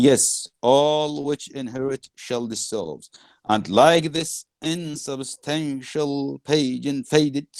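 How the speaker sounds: slow, stretched-out recital; declaimed verse. Acted. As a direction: let each image ring out slowly. Reads Prospero's speech to class.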